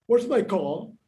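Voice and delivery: imitated Boston accent, dropped final R. Shown as a demonstration. Fan showing author the Bostonian accent, imitated Boston accent. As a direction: try a Boston accent with no R in "car". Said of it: "Bostonians do not pronounce the last R".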